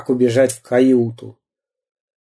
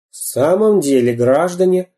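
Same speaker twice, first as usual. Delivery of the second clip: милиционеры; 5 semitones higher than usual. Acted. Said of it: "сказали милиционеры".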